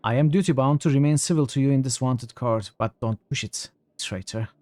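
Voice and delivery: cold menacing. Acted. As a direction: warn him coldly. Reads NPC dialogue.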